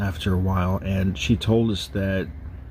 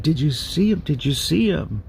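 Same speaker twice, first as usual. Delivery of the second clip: higher-pitched, mildly frantic retold question; alarmed mom; 5 semitones higher than usual. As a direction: imitate a startled mom urgently checking. Mom quoted just after screaming.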